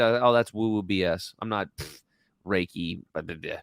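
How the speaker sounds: mock dismissive "Reiki, blah, blah, blah"; scoffing. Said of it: "that was all my ego".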